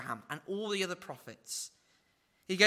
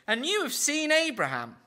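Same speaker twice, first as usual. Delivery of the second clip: jeering; 9 semitones higher than usual. Retold or imitated. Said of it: "this causes even more jeers".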